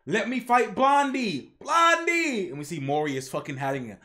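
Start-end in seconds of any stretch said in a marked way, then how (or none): 0.1-2.5 whiny demands building to a shout of Blondie; childish tantrum, rising to a cry; mock temper tantrum. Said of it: "a temper tantrum".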